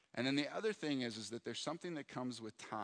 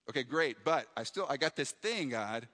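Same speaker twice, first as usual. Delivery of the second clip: anxious pleading; 2 semitones higher, 6 dB louder than usual. Retold or imitated. Pastor retelling his anxious prayer over a full calendar, urgent pleading. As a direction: press God for answers, a bit frantic. Pleading again, more insistent.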